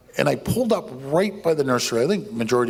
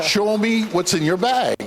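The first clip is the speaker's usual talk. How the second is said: retold threat; 6 semitones higher than usual. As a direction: bark the order half-laughing.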